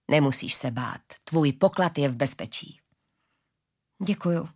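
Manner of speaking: low, soothing promise; calm, low-voiced comfort; reassuring. A narrator's reading. Reassuring the old woman.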